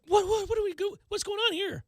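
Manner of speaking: high, baffled what-am-I-seeing; mock stunned fan; bewildered disbelief. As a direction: voice jumps up in confusion. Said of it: "You're like".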